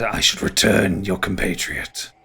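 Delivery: slow, measured ent voice; mildly ponderous ent; ancient tree creature. Acted. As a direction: say it slowly, lightly voiced as an old tree. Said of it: "And Oakenstarl just kind of".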